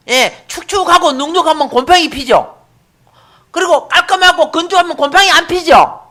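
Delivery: high, emphatic preacher's delivery; forceful preaching. Real, not acted. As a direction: drive each point home to the congregation.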